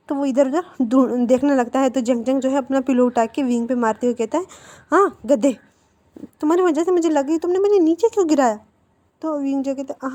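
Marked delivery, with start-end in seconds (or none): 4.9-8.6 high, louder angry complaint; annoyed scolding. Acted. Boy scolds his friend while hitting him with a pillow: high annoyed shout.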